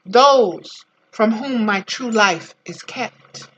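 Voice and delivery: slow, deliberate, weighing each word of "Those from whom my true life is kept"; slow emphatic quote. Shown as a demonstration. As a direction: let "Those" lift and slow the whole line right down. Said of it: "One of the definitions of our parents might be".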